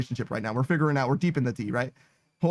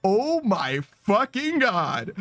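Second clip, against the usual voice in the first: slow disbelief; much slower than usual. Real, not acted. Shocked reaction to chat message.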